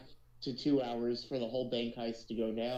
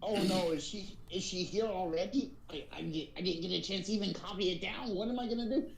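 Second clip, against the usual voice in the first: panicked goblin; 4 semitones higher than usual. Acted. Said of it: "he goes".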